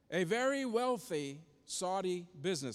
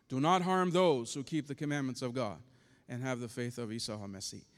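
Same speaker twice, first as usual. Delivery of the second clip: lightly voiced calm angel, lower; 6 semitones lower, 3 dB louder than usual. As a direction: repeat the angel's command steadily and low. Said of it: "this angel in a very calm voice".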